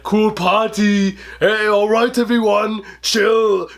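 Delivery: lightly voiced Freeze punning; a hint of Schwarzenegger swagger; mock Mr. Freeze. Reviewer mocking Mr. Freeze's party entrance, lightly voiced. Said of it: "he goes".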